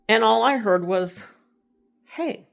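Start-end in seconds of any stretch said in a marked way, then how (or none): 2.0-2.5 husband's voice. Retold or imitated. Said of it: "like, in my husband's voice".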